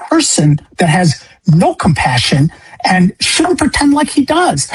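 high-pitched, slow, voice straining with grief; grieving father's raw, rising appeal; impassioned plea. Retold or imitated. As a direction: plead slowly, pitch climbing on the hardest words. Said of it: "to at least voice, like".

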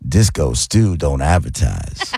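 slow, smooth Disco Stew; smooth seventies brother, slow. Pretend. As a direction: savor it like a lounge DJ. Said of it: "say, "Disco Stew doesn't advertise".

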